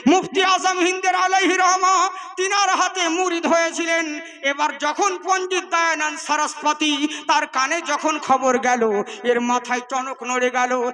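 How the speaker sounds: fervent sermon delivery, pushing each line out to the crowd; preaching. Acted. Preacher rousing the faithful at a jalsa, fervent preaching. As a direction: preach it with full fervour.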